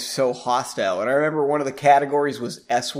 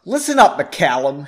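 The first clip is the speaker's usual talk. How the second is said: angry warning; 5 dB louder than usual. Acted. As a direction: warn him off, a touch angry. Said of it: "she said angrily".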